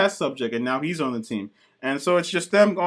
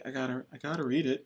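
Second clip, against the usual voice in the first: mock hushed eagerness; 3 semitones lower, 11 dB quieter, faster than usual. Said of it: "I was just like".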